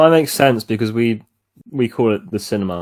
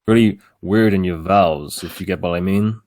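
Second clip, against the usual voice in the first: American accent. Shown as a demonstration. Asked to show friends an American, attempted American accent. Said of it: "kinda sounds like this, where you just talk".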